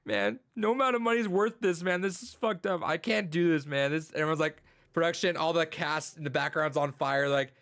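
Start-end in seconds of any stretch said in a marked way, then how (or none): 0.0-3.9 mock tearful plea, starting high; lightly hammed-up distress; retold crying. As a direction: imitate an upset guy giving up. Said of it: "the guy's crying. He's like".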